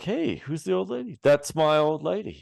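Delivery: high-pitched quoted character; film character impression. Podcaster quoting Wayne's World dialogue, high character voice. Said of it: "And he's like".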